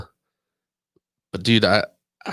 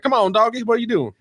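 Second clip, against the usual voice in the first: higher, eager, mock boss call; a hammed-up boss hustling his staff; the speaker's hyped boss voice; 12 semitones higher than usual. Boss urging a salesman to get moving, in a higher hyped voice. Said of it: "he would always be like".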